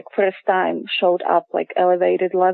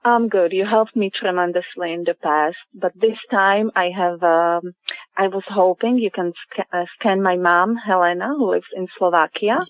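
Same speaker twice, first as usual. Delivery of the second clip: over the phone. Real, not acted. Caller on the line.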